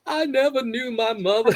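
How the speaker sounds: high, hammed-up shouted line; mock shark shout. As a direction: belt it like a dramatic shark. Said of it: "everybody just wants me".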